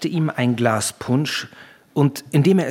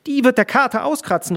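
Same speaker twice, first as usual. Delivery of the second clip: high-pitched indignant call; crying out; 11 semitones higher, 4 dB louder than usual. A narrator's reading. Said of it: "rief Veronika". (hoch und schrill gerufen)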